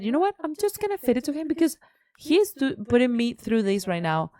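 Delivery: high, fast exasperated rant; exasperated retelling to her partner; retold outburst. Retold angry outburst at roommate.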